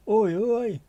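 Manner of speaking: high, loud Oi call; mock Oi shout. Calling out Oi to the chat in a high shout. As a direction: shout it like a terrace chant.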